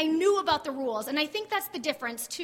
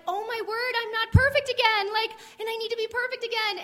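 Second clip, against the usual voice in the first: higher, worried self-talk; a touch of panic, pitched up; anxious inner voice; 6 semitones higher, 4 dB louder than usual. Retold or imitated. Retelling anxious thought at church.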